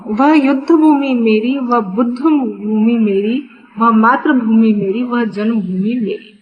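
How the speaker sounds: rhythmic, evenly phrased refrain; poem recitation. Acted. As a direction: recite it in regular, parallel lines.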